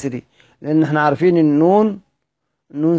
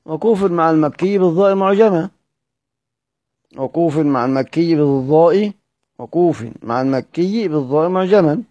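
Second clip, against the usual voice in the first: reciting verse. Shown as a demonstration. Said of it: "سيدنا الإمام الشاطبي قال إيه؟".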